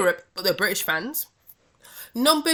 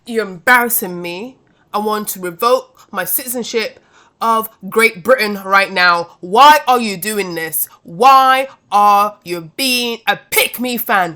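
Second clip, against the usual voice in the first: exasperated scolding; 8 dB louder than usual. Real, not acted. Scolding British fans, exasperated.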